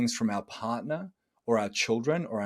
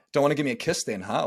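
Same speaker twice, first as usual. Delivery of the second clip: sarcastic jab; faster than usual. Shown as a demonstration. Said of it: "how would you say something sarcastically".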